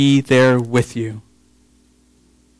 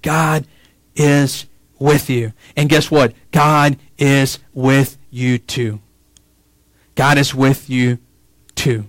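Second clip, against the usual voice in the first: tender reassurance; slower than usual. Acted. Pastor gently assuring his listeners God is near, slowly. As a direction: lean in and comfort them gently.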